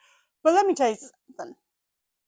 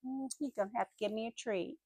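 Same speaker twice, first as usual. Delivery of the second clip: lightly voiced balky little dogs; playful imitation of reluctant dogs; stubborn dogs; 4 dB quieter than usual. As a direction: dig in and bargain, trailing off softer. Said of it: "Howie and Lola, they're like".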